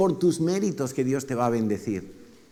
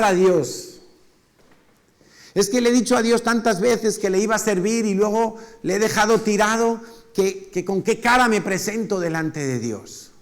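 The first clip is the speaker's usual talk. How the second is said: guilty lament; 8 semitones higher, 4 dB louder than usual. Retold or imitated. Voicing a guilt-ridden believer.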